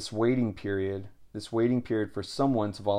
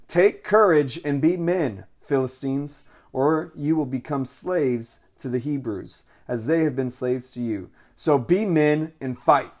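rallying cry; 3 semitones higher, 4 dB louder than usual. Acted. Philistine leaders rallying their troops.

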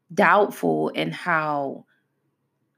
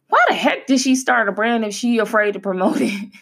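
higher-pitched imitation of puzzled critics; mock incredulous critic; 5 semitones higher than usual. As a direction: question it like a disbelieving onlooker. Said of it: "I know people are like".

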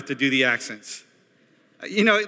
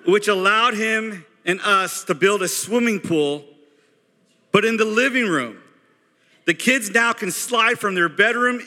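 boastful Christmas newsletter; 3 semitones higher than usual. Acted. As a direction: read it out like a proud family boast. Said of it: "I'm gonna read you a".

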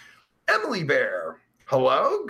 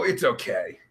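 normal talking voice

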